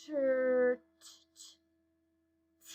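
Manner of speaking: TR broken down into a short puffed T; slow phonics sounding-out of T. Shown as a demonstration. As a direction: isolate the T sound, repeated by itself. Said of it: "say what sounds or the letters we hear".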